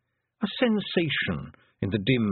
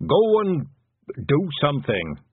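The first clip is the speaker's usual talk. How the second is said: impatient order; 5 semitones higher, 4 dB louder, slower than usual. A narrator's reading. Panicky father orders daughter out.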